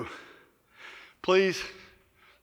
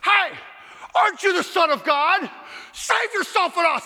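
higher, taunting jeer at Jesus; mocking thief; 8 semitones higher than usual. Other thief taunting Jesus from his cross, mocking jeer. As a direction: sneer it like a scoffing criminal. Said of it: "I heard the other thief on the other side say".

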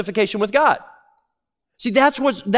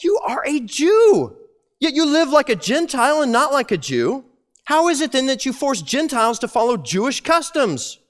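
Paul confronting Peter; 3 semitones higher than usual. Retold or imitated. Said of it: "I said to Peter".

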